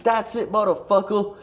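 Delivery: high, strained mock fury; retold fed-up threat. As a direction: imitate a buddy who has finally had it. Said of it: "And he snaps".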